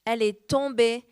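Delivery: measured, solemn Bible reading, slowing on the storm lines; scripture reading. Acted. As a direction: read the Word with weight. Reads scripture passage aloud. (lecture solennelle de l'Écriture)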